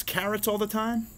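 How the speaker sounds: high-pitched mouse in mild alarm; dismayed cry. A narrator's reading. Mouse hears about healthy food, high dismayed cry. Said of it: "cried Mouse".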